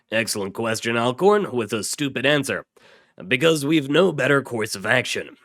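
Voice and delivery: put-on rally the boys with firm, punchy delivery; squad leader's briefing. Task force leader briefing his boys, loud and emphatic.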